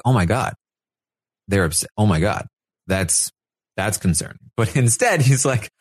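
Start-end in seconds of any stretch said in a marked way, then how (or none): 0.0-4.4 mock concern. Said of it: "Kyle would be like".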